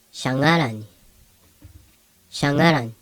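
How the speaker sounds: shangaran with a single NG, no hard G; NG sound. Shown as a demonstration. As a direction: say shangaran with NG as one letter. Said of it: "like an N G, almost N G sound".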